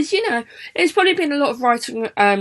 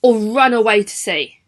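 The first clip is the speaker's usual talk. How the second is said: fed-up teacher. Retold or imitated. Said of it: "Missus Butler doesn't seem too happy".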